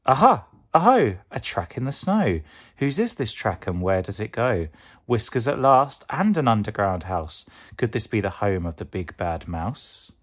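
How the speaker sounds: bursting with discovery; excited Gruffalo child. Acted. Child finds a trail in the snow, loud and excited.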